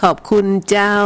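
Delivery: a light northern Thai lilt on ขอบคุณเจ้า, ending with the sweet northern particle เจ้า; northern Thai thanks. Retold or imitated. Host copying a northern Thai listener's sweet thanks, lightly voiced northern Thai. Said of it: "ชอบสำเนียงเจ้า".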